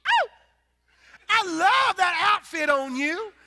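high, slow, syrupy fake-sweet voice; sugar-sweet mock Southern belle; sugary Southern lady. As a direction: gush a fake compliment with a false sweetness. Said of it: "look at you and say".

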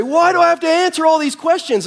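put-on high, loud whiny wail of a tearful child; mock crying kid. Tired kindergartner wailing at parent in the car, high and tearful. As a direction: play the kid bursting into tears over questions. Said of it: "he'd immediately break out into tears and say".

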